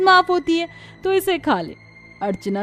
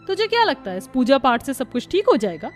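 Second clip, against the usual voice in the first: high-pitched scornful jeering; mocking taunt; 7 semitones higher than usual. Sister-in-law mocking Kanchan's new worship, scornful. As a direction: needle her with a raised, sneering voice.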